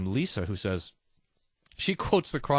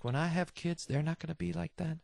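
smug friend; 4 semitones higher, 8 dB quieter than usual. Retold or imitated. Mocking smug childless friends.

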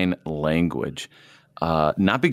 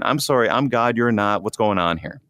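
light mock-incredulous sarcasm; a gentle sarcastic nudge. God teasing his fearful people, mild sarcasm. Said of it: "God kind of using a little bit of sarcasm".

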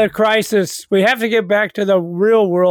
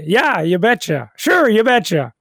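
playful attempt at a Minnesota accent; light, folksy Minnesotan accent. Shown as a demonstration. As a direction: put on your best Minnesotan accent. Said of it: "That's my best Minnesotan accent".

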